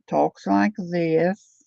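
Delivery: slow imitated Tennessee drawl. Showing viewers how the comedian talks, slow Tennessee drawl. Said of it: "she's got this Tennessee drawl".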